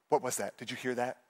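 low, soft night-time questioning; hushed mock alarm. Wife to sleepy husband after a noise, hushed. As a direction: imitate a worried wife in the dark.

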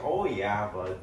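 put-on light Michigan accent, easygoing; a hint of a folksy Michigan accent. Imitating the car buyer to his friend, light Michigan accent. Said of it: "stereotypical Michigan accent".

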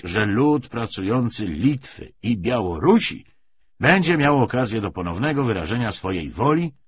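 measured lecture with emphatic surges; lightly voiced party orator. Commissar justifies the treaty to comrades, mildly oratorical. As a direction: argue the policy point by point.

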